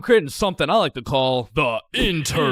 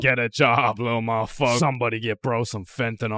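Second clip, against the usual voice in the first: low troll voice; 5 semitones lower, 4 dB quieter than usual. Acted. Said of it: "comments are talking about".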